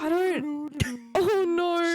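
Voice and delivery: mock crying. Grief after ghost gone.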